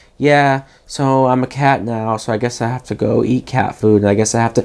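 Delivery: mock level, flat monotone narration with no urgency. Imitating a man narrating as a cat, flat monotone narration. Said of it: "the narration is so monotone".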